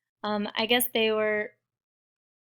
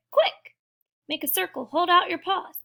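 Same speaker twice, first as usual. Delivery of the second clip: high, urgent rallying orders; rally the scattered group; yelling orders; 8 semitones higher, 5 dB louder than usual. A narrator's reading. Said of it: "yelled Pip".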